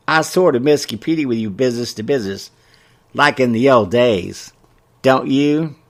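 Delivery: lightly voiced elderly woman; prim old busybody; old gossip lady voice. Mabel voiced.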